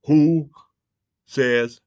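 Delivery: shouted high and loud, accusing; furious shout. Real, not acted. Ranting at the audience, a loud furious shout. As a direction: hurl the question at the crowd. Angry rant calling out.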